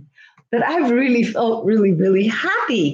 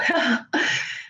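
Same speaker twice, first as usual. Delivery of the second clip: breathy laugh; 6 dB quieter than usual. Real, not acted. Embarrassed laugh after emotional moment.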